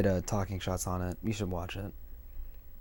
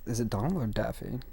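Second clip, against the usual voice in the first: cartoon duck voice; 6 dB quieter than usual. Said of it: "Donald Duck asks".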